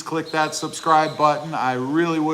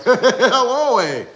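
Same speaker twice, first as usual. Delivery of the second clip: mock Canadian accent; 8 semitones higher, 6 dB louder, much slower than usual. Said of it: "they're like".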